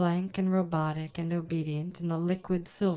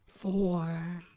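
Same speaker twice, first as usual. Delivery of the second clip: whispered countdown number. Acted. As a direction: breathe the count out.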